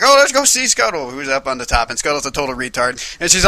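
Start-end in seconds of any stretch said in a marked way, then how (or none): 0.0-1.1 high, bright mock mermaid girl; girly Ariel voice. Ariel suggests visiting Scuttle, high girly voice. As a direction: squeak it like a silly teen girl. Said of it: "Ariel's like".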